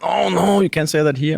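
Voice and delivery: high-pitched mock dismay; mock alarm. Friend warns him about blurting out bad words, mock alarmed. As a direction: imitate a scandalized friend, pitch jumping up. Acted reaction of shocked friends.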